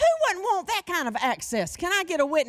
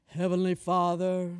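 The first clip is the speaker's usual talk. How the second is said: formal prayer; 9 semitones lower than usual. Shown as a demonstration. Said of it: "You don't have to do this prayer".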